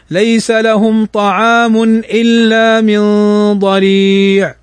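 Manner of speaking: slow, chanted recitation of Surat al-Ghashiya; a steady Quranic chant. Shown as a demonstration. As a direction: recite the surah verse by verse with tajweed.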